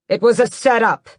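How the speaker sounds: high, loud accusation; angry yell. Acted. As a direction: yell it at his mother. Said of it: "Raoul yells".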